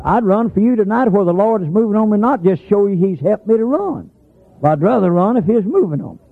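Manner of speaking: high, driving preaching cadence. Real, not acted. Preacher exhorting church about strength, high preaching. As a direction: press it on the congregation, pitched high.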